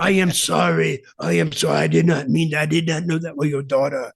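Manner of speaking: mock Russian accent apology. Wrestler apologising over the daughter, in a Russian accent. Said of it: "but still in the Russian accent".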